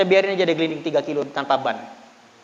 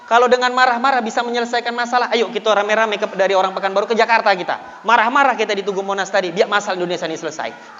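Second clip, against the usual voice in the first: rhetorical challenge; 4 semitones higher than usual. Retold or imitated. Preacher challenging the shop owner, raised and insistent. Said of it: "saya bilang".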